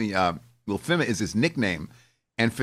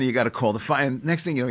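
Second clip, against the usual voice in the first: usual speaking voice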